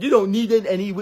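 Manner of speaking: high, loud mocking squeal; mocking whiny voice. Vlogger mocking self-love advice, high mocking squeal. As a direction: parody the preachy advice in a shrill falsetto. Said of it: "because it's so cool to say, like".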